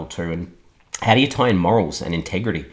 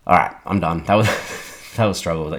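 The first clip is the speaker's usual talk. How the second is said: hoarse, voice nearly gone. Real, not acted. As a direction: speak with a hoarse voice. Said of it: "You can probably tell I've, I've lost my voice".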